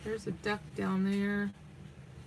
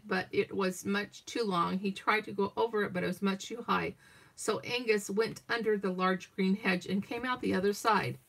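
steady picture-book read-aloud; story narration. Acted. Grandma reading Angus and the Ducks over video call, gentle storytelling.

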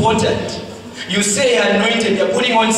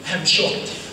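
whispered shock; 2 semitones lower, 5 dB quieter than usual. Real, not acted. Preacher whispers his shock.

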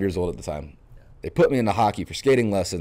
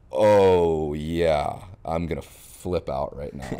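flipping out; 2 semitones lower, much slower than usual. Retold or imitated. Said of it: "went from just calm, relaxed to".

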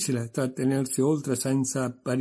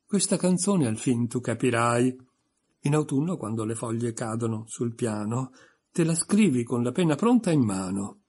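pompous sing-song recital; lightly voiced pompous poet; poem recital. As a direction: declaim it like a proud reciter. Humpty recites his poem.

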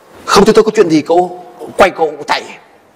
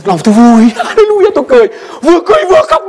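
joyful laughter; 13 semitones higher, faster than usual. Retold or imitated. Recalling joy, laughing and crying.

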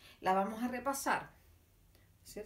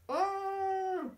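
mock dismay; 7 semitones higher than usual. Reacting to wrong answer.

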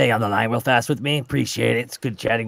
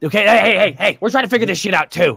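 exasperated; 8 semitones higher, 6 dB louder, faster than usual. Acted. Defending to official.

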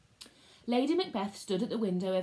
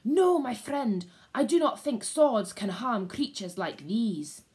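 Banquo's hushed urgent warning, slightly raised; 3 semitones higher, 5 dB louder than usual. Acted. Banquo warning his friend Macbeth, urgent. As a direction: warn him off urgently. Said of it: "Banquo hissed out an urgent warning".

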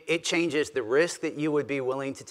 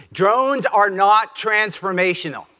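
slow, loud and higher, laying down a challenge; bold provocative claim; 7 semitones higher, 7 dB louder than usual. Real, not acted. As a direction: drop it like a provocation. Provocative thesis to grab audience.

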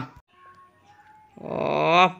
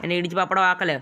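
fast villain threat; 3 semitones higher, 5 dB quieter, faster than usual. Acted. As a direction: rattle off a gangster threat. Boss threatening at toddy shop.

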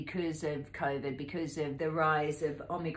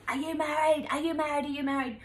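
high, loud repeated call of the men; yelling men; 10 semitones higher, 5 dB louder than usual. Retold or imitated. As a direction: shout it across at her, pitched up. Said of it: "these men were yelling at me like".

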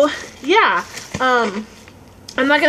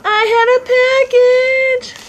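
excited; 12 semitones higher, 6 dB louder, slower than usual. Real, not acted. Excited sing-song announcement.

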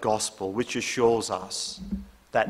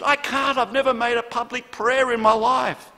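panicked protest; 12 semitones higher, 5 dB louder than usual. Retold or imitated. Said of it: "John answered".

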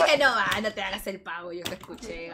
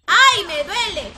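louder, slow mock cry of pain; 8 semitones higher, 11 dB louder, slower than usual. Retelling the girl in the booth, hammed-up pained cry. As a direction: ham up a girl's pained "ay". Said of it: "la chica dice".

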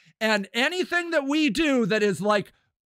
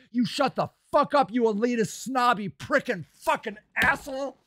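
real angry rant, cursing. Real, not acted. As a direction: spit out the insults in real anger. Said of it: "you see how mad this makes me".

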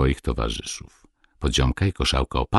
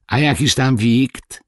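high, slow, fretful question; a hint of a fussy page's concern; anxious asking; 10 semitones higher, 5 dB louder than usual. A narrator's reading. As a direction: worry about the food. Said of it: "zapytał troskliwie Krężołek".

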